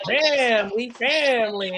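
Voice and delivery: imitated coach's put-on Southern drawl; fake Southern accent. Retelling the viral coach clip, fake Southern accent. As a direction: mimic a badly faked down-south accent. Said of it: "he tried to do the fake accent of the down south".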